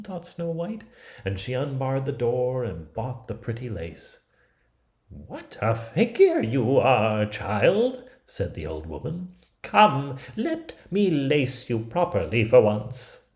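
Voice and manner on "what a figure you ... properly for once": put-on higher, louder crafty old woman; wheedling with false kindness; old peddler woman. Disguised queen flattering Snow White, higher and louder.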